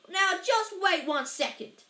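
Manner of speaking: loud, slow, high-pitched outrage; thundering. A narrator's reading. Angry giant halting everyone, thundering slowly. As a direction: thunder each word slowly. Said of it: "Hagrid thundered".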